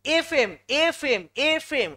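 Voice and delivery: "এফএম" slowly, opening on a long vowel; drawn-out pronunciation demo. Shown as a demonstration. Teacher showing which sound comes first, "এফএম" slow and repeated. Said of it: "উচ্চারণ কিসের হচ্ছে".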